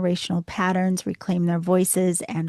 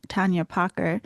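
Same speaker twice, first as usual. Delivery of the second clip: Tanya Parker with a slipped Boston accent, the r in Parker dropped as Pahka. Real, not acted. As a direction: let a Boston accent slip into Parker, rising at the end. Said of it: "My Boston accent just came back".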